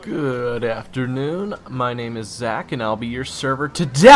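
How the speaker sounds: slow, loud, overly formal server welcome; stiff waiter greeting. Acted. Waiter Zach greeting the table, stiff and loud. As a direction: greet the table like a nervous waiter reading a script.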